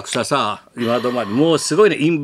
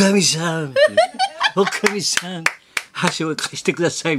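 imitated plea; 5 semitones higher than usual. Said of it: "みたいな".

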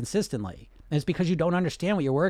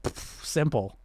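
breezy, louder hammed-up scoffing know-it-all; mock dismissive; 4 semitones higher, 3 dB louder than usual. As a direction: brush it off like it's nothing, loudly. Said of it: "I'm like".

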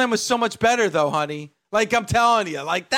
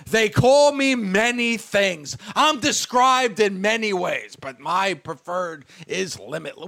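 mock wrestler promo; 2 semitones lower than usual. Wrestler confronting a rival, mocked pompous delivery. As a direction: recite it like a stilted, self-important speech. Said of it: "the way you confront Randy Orton is like".

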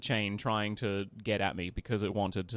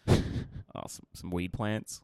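retold coy, sheepish admission; hesitate, slow and coy, as if owning up; 3 semitones lower, much slower than usual. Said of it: "looks at me really coyly".

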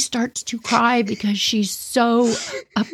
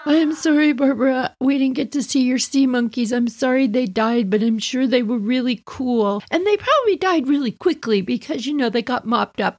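a hint of consoling kids; 4 semitones higher than usual. Classmates consoling her.

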